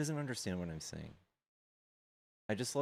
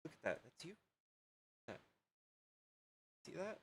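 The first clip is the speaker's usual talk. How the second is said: soft cooing; 9 semitones higher, 12 dB quieter than usual. Real, not acted. Cooing softly to dog.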